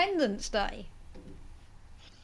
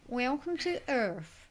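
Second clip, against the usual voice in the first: happy American accent; 2 semitones higher, slower than usual. Shown as a demonstration. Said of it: "kind of a happy Orlando voice".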